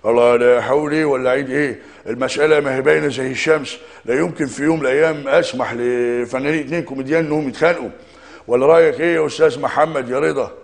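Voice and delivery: a hint of a grand actor; Mahmoud Abdel Aziz impression. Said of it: "يا استاذ محمود يا عبد العزيز".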